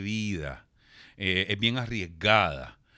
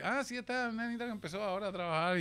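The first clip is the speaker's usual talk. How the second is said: dismissive snob; 10 semitones higher, 7 dB quieter, faster than usual. Retold or imitated. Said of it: "me acuerdo que como que".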